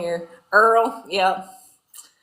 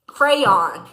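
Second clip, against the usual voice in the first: "Crayon" squeezed into two quick syllables, "cray-ahn"; southern crayon; 3 semitones lower than usual. Shown as a demonstration. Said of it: "how do you say a Crayola?".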